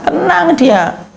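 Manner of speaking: slow, high and stretched out; drawn-out calm. Acted. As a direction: savour each syllable slowly. (pelan dan memanjang)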